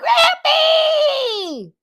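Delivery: high, loud, laughing call; excited laughing shout. Real, not acted. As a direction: call out with delight. Child calling out, laughing.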